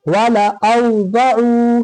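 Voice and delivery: वाला औज़अू recited with the vowels held; measured Quranic recitation, syllable by syllable; drawn-out recitation. Shown as a demonstration. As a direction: stretch out वाला औज़अू like a teacher demonstrating. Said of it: "खींचेंगे तो क्या हो जाएगा".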